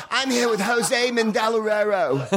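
high, slow mock celebrity host; mock Joan butchering a name. Comic imitating Joan on the red carpet, high and slow. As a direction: mangle the name like a clueless host. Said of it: "she would just butcher them".

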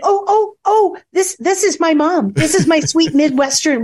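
high, hurried, flustered introduction. Retold or imitated. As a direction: jump in fast to shield your mom. Flustered introducing mom to swearer.

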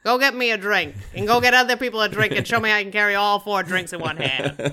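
loud, hammed-up old granny voice; exaggerated old-lady accent; put-on grandma accent. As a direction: holler like a grandma bossing grandkids. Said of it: "speak with exactly that accent".

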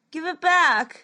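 high, loud desperate cry; girl's yell. Acted. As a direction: shout near tears. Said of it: "she yelled".

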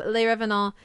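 "Les Revenants" in a schoolbook French accent, lay ruh-vuh-NAH; "Les Revenants" with a self-conscious, rusty French accent; French pronunciation. Real, not acted. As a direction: say "Les Revenants" the French way, dropping the final s sounds. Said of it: "for my French accent".

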